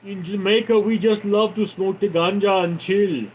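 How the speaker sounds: lightly put-on Jamaican accent; laid-back imitation of a Jamaican accent. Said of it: "can you talk like a Jamaican accent?".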